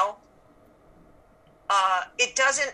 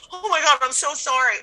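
higher, overdone sympathy; gushing sympathy; 6 semitones higher, 3 dB louder than usual. Retold or imitated. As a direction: lay the sorry on thick. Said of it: "I've been like".

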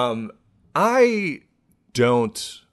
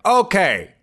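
imitated TED speaker; 9 semitones higher, 6 dB louder than usual. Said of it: "walked out on stage and was like".

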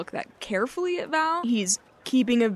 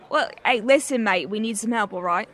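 Val in character; 7 dB louder than usual. Acted. Val voice responding.

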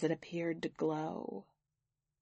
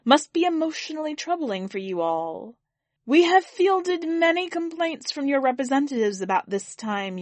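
higher, louder ceremonial alien address; alien orator; 4 semitones higher, 4 dB louder than usual. Acted. Alien benefactor opens speech to jeering mourners, grand address. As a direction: proclaim it to a hostile hall.

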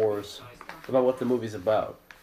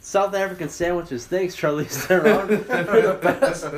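gushing excitedly; 7 semitones higher, 6 dB louder than usual. Retold or imitated. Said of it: "I'm like".

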